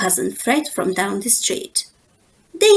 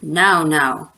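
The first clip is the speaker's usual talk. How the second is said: calming papa; 7 semitones lower than usual. Acted. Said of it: "said Papa".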